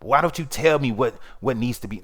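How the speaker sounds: lightly mocking, passive aggressive question. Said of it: "in an old passive aggressive voice".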